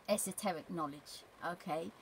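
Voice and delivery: ordinary talk, nothing marked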